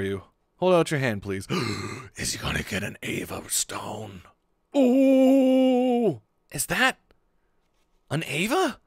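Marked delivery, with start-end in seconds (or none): 4.8-8.8 high, loud delighted ooh; a gasp of joy; excited ooh. Acted. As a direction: squeal with delight at the gift. Excited reaction to gift.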